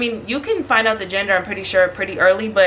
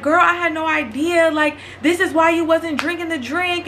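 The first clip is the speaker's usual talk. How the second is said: teary; 6 semitones higher than usual. Retold or imitated. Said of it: "I almost start crying".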